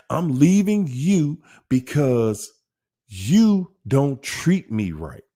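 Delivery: slow, drawn-out mocking whine. Mimicking a narc's breakup excuse, slow and whiny. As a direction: stretch it out like a sulky excuse.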